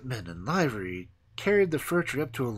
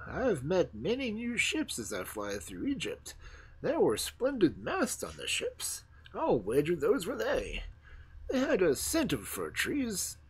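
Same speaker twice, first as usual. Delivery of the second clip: put-on wise old stork; 5 semitones higher than usual. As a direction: muse like a knowing old bird. Stork answers the young fir tree.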